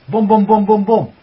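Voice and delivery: pumped-up exclamation; excited booms. Real, not acted. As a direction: hit each boom like a drumbeat. Cheering on the affirmations.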